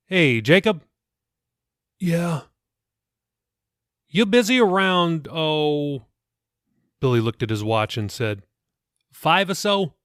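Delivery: casual fatherly question; lightly voiced pastor. A narrator's reading. Pastor asking Jacob about his afternoon, lightly voiced.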